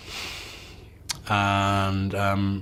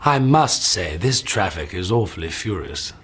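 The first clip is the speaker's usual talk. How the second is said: lightly plummy English gent; mild upper-class English read; posh British accent; 3 semitones lower than usual. Shown as a demonstration. Actor echoing the posh line for the interviewer, mild plummy English. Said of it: "In a posh accent".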